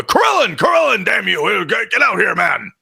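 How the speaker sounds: high, panicked yell for help; frantic shout. Acted. Barkeep frantically yelling for Krillin to come out. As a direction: scream his name across the room.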